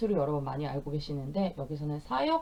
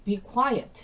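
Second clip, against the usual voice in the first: mock hush; 5 semitones higher, 6 dB louder than usual. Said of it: "하고 우리 많이 들어보셨죠".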